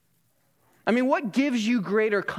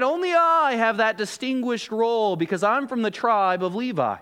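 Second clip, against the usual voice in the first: higher-pitched mock boast; bragging; 4 semitones higher than usual. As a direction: flaunt the exclusive role. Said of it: "they're all bragging to one another".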